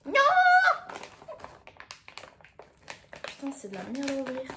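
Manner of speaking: straining to open a package; struggling with the lid; opening a stuck jar. Real, not acted. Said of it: "j'arrive pas à l'ouvrir".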